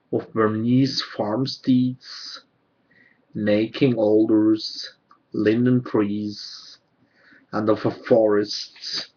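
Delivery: measured poem recital, pausing between phrases; poetry reading. Acted. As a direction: read it as verse, line by line. Reads own poems aloud.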